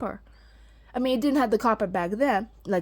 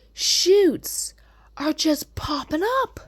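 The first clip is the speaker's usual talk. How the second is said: awed whisper; 6 semitones higher, 5 dB louder, slower than usual. Real, not acted. Amazed at new shoots.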